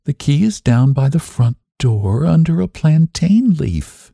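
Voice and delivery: high, gentle and spaced out; gently and slowly. A narrator's reading. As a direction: repeat it patiently, pausing between phrases. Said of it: "very gently and slowly".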